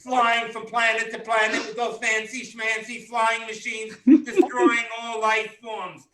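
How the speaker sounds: mock outrage building to a shout; scolding mother. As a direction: berate your grown son like an outraged mother. Mother scolding superhero son.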